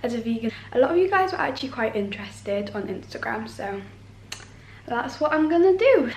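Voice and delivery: croaky, just-woke-up voice; a croaky morning voice. Real, not acted. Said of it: "morning voice when it's really croaky".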